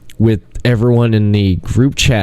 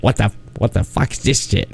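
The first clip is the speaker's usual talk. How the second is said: lightly imitated English accent, softer; 5 dB quieter than usual. Friend baffled by Blind Date on TV, English accent. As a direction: put on a bit of an English accent, hushed. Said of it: "English accent".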